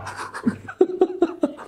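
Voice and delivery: airy high-pitched laugh; giggling at the memory; high breathy laugh. Real, not acted. Laughs at own answer.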